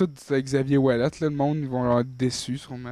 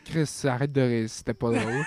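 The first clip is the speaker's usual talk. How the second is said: stifled giggles; 2 semitones lower than usual. Real, not acted. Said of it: "je me retiens de rire".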